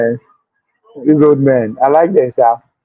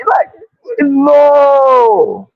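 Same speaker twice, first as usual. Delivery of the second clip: ordinary talk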